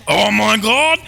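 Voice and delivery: high, hammed-up exclamation; mock thrilled. Reacting to doctor calling you patient, mock thrill. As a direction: fake being overwhelmed with excitement.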